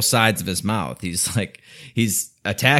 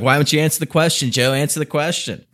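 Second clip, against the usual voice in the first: mock berating; 5 semitones higher than usual. Host imitating Trump berating Biden, impatient demand. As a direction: badger him to just answer.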